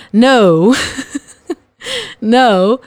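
laughing denial. Acted. Acting out self-denial to partner.

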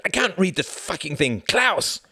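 loud, high exasperated yelling; yell, rising to a shout on the name; furious scream. A narrator's reading. Jorgen can't read the paper and calls Klaus, screaming. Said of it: "screamed Jorgen".

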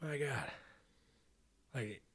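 exasperated whisper. Real, not acted. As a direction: breathe it out in disbelief. Exasperated at failing villain.

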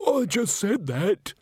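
high, slow, peeved complaint; annoyed muttering. A narrator's reading. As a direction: grumble it, put out at being upstaged. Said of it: "in a rather annoyed voice".

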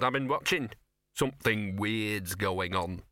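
lightly voiced knowing dog; Gaspode the talking dog.

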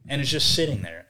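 ordinary delivery

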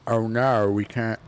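weak attempt at an Australian accent. Host attempting a line from Australia, half-hearted Australian accent. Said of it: "I can't do Australian accent right now".

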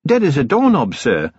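put-on high, eager young voice; bright, dutiful junior officer; young dwarf sergeant. A narrator's reading. Cheery answers from doorway.

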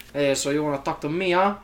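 hint of a gangster's challenge; quick, lightly voiced crime boss; Scarface. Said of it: "he's just sitting there like Scarface".

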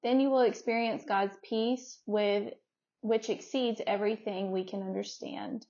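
soft, low reading voice; hushed, low Bible reading; scripture reading. Acted. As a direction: read the verse quietly and evenly. Reads a scripture passage aloud.

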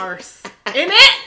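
badly faked British accent, ending loud; mock British accent. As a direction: put on British, punching the last word high. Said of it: "talking like a British person".

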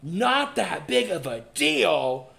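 slow disbelieving repeat of "Not that big of a deal?"; incredulous echo. Retold or imitated. She echoes her ex's words back in slow disbelief. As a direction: throw his words back, stunned. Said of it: "And I go".

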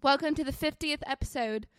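playful put-on British accent, innit; host the show in a mock British accent. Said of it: "started talking in the accent".

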